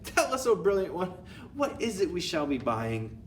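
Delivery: very high, loud shrill cry; squealing witch chorus. Acted. Witches answering their leader, very high and loud. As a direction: squeal eager agreement.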